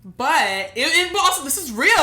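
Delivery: pushing through real tears; tearful. Real, not acted. Host near tears insisting this is real, tearful.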